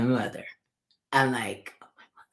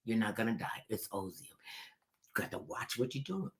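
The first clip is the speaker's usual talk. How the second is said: dismissive; 3 semitones lower, 12 dB quieter than usual. Retold or imitated. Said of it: "They just looked at me like".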